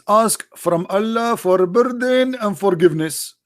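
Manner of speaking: mocking a whiny plea upward; hammed-up begging voice, high on my people; mock pleading. Mocking Muhammad pleading to God.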